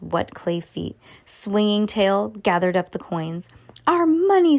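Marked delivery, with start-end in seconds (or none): 3.9-4.6 high, loud anguished yell. A narrator's reading. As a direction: cry out at the loss. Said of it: "Sam yelled".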